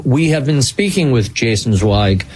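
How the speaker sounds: measured podcast host credits read; radio sign-off. Acted. Host thanking the team and signing off, radio sign-off. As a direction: read the closing credits to listeners.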